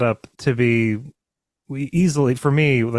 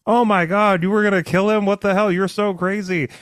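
high, alarmed disbelief; shocked disbelief; 8 semitones higher than usual. Retold or imitated. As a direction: freak out at her in shock. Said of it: "Chaol was like".

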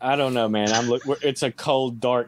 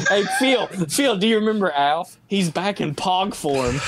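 excited shout; 7 semitones higher than usual. Real, not acted. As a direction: call out across the room, thrilled. Excited call to co-host.

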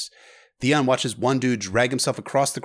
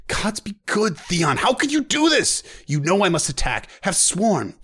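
anguished plea; 7 semitones higher, 4 dB louder than usual. Acted. Old knight crying out to Theon in anguish. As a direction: cry out, high and pained, to the captor.

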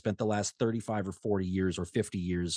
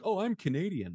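higher-pitched mocking imitation; mock self-promotion; 8 semitones higher than usual. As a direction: put on a higher voice to mock the claim. Mocking celebrities who claim nationality when convenient.

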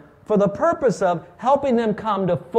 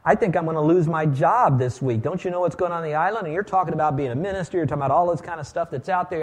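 worried outsider. Retold or imitated. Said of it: "you're thinking".

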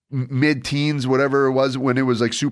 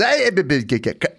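lightly voiced wrestler calling for respect; wrestling promo. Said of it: "and he goes".

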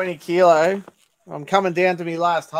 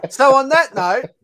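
higher, louder, slow, still laughing; laughing slow transition; 8 semitones higher, 7 dB louder, slower than usual. Real, not acted. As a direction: push through the laugh to move on. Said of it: "laughing wrap-up attempt".

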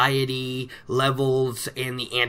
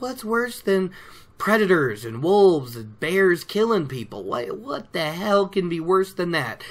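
alarmed villagers; 3 semitones higher than usual. Acted. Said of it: "And they're like".

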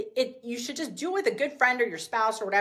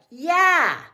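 breakthrough yes; 5 semitones higher, 8 dB louder than usual. Retold or imitated. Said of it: "you'd be like".

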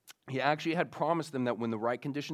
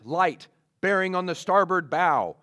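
lookout calling out, louder and higher; lookout's yell; 4 semitones higher, 7 dB louder than usual. Retold or imitated. Lookout reporting to his captain at night, mock yell. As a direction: raise the alarm to the captain. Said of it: "yells to his captain".

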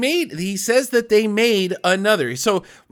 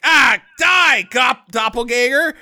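louder, higher mock shout; mock battle yell; 3 semitones higher, 5 dB louder than usual. Retelling the hero killing the doppelganger, mock yell. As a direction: yell it like charging the clone. Guy quoted attacking doppelganger.

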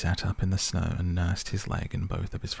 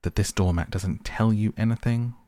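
excited; 3 semitones higher, 4 dB louder than usual. Acted. Rat cries out to the mole about the doormat, excited. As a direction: burst out in disbelief. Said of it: "cried the excited rat".

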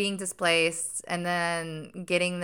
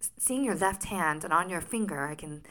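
put-on Sherlock Holmes accent. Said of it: "I sound like Sherlock Holmes".

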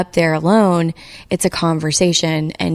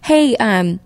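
impersonating director; 3 semitones higher than usual. Retold or imitated. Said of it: "this is my impersonation of her".

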